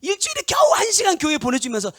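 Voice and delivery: loud, high, impassioned preaching; full-force preaching. Acted. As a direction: preach it out hard to the congregation. (힘껏 외치는 설교)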